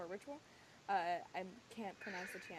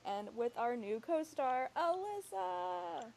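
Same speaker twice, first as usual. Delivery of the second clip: drawn-out, rising, announcer-style intro; excited announcement; 6 semitones higher, 4 dB louder, much slower than usual. Real, not acted. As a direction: build it up and call her name. Introducing new co-star, calling out.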